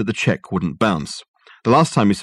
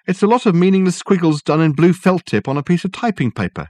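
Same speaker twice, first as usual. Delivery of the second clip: weary secretary; 9 semitones higher, 3 dB louder than usual. Acted. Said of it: "Miss Pierce sighed".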